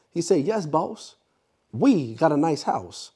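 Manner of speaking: measured, emphatic speechmaker with deliberate pauses; Mister X, orator. Acted. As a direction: lay out the argument to an audience, phrase by phrase. Performs Mister X's speech as monologue.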